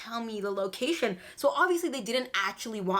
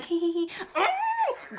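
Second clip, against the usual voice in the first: mock giggle; 8 semitones higher, slower than usual. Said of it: "I'm like".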